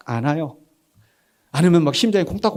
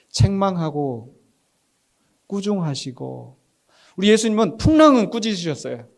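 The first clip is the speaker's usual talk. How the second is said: ordinary talk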